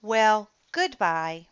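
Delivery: slow, wistful farewell; sad goodbye. A narrator's reading. Danny says goodbye to the dinosaur, slow and wistful. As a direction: let it go reluctantly. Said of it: "said Danny".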